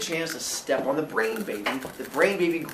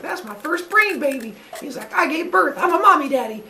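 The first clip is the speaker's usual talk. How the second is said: high, gushing excitement; proud Zeus; 12 semitones higher than usual. Acted. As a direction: gush like a proud new parent.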